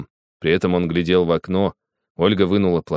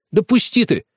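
angry shout; 14 semitones higher, 4 dB louder than usual. Acted. Boy pushing past grandpa.

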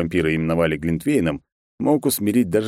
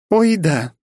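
teasing; 13 semitones higher, 5 dB louder than usual. Acted. Mel teasing mockingly.

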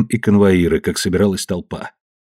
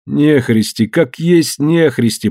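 whining lament; 5 semitones higher, slower than usual. Acted. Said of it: "плакался Смольков".

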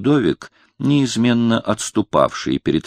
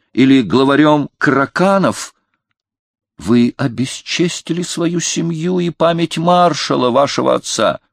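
high, outraged tirade; a king flushed with fever, scolding from above; feverish indignation; 7 semitones higher than usual. A narrator's reading. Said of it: "то краснее, то бледнее, словно в лихорадке".

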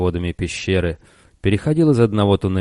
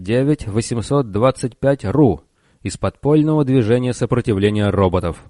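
raised chairman's voice; calling to order; 5 semitones higher than usual. Acted. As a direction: rap the room to order. Chairman calls meeting to order.

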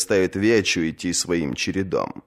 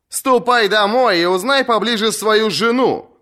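much higher, louder sharp comeback; shouted retort; 14 semitones higher, 3 dB louder than usual. Acted. Asha shouts back at the heckler, sharp retort. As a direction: fire the insult straight back. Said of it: "крикнула в ответ Аша".

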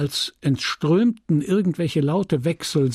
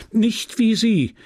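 higher, drawn-out exclamation; crying out; 8 semitones higher, slower than usual. A narrator's reading. Leon protesting to Emma that others differ, crying out. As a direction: call it out in slow, high protest. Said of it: "rief er".

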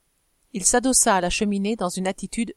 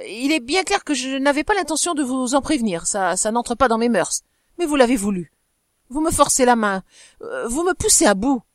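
rushed, stammering; 3 semitones higher, 3 dB louder than usual. Acted. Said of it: "en précipitant ses mots et presque en balbutiant".

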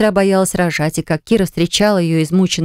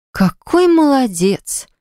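much higher and slow, dripping sarcasm; sarcastic sister-in-law drawing out mock praise; 8 semitones higher, much slower than usual. A narrator's reading. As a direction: sneer out slow fake praise. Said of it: "проговорила Кира с издёвкой".

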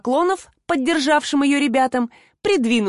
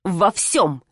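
measured, restrained calm; as calm as possible; 3 semitones lower than usual. Acted. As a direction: keep the reply steady and even despite the insult. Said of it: "как можно спокойнее ответила".

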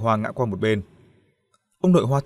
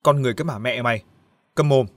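barking at her; faster than usual. Acted. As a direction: snap at his sister to shut up. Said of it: "quát". (quát em gái, nhanh và gắt)

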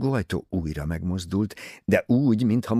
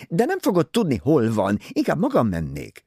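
higher, louder gushing society lady; Mrs Otterborn's voice; 8 semitones higher, 4 dB louder than usual. Acted. Vain novelist pressing her book on Poirot, high and gushing.

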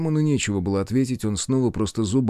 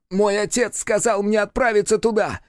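high, wailing lament; keen it like a grieving child; a raised, mournful demon wail; 12 semitones higher than usual. A narrator's reading. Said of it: "причитал демон".

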